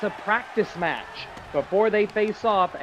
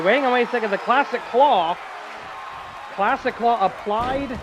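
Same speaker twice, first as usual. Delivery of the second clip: excited call; 4 semitones higher than usual. Real, not acted. Commentator spotting the Classic Claw, excited interruption. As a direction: break in urgently on the action. Live call of a surprise hold.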